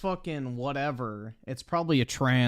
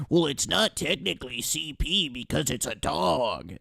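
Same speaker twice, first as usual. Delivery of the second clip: mocking quote. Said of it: "and be like".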